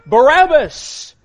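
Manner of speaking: loud, drawn-out crowd cry. Retold or imitated. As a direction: call the name out like a mob. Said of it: "they're crying out".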